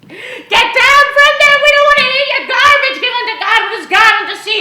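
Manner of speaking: high, loud jeering yell at the speakers; heckling yell. Retold or imitated. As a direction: bellow them off the platform. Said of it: "we started yelling and screaming".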